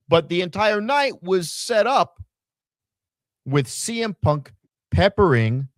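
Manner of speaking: ordinary delivery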